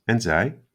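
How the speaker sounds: zij leaned on as a question; asking back, lightly stressed zij. Shown as a demonstration. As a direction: hit zij in En zij?. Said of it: "zij can take emphasis".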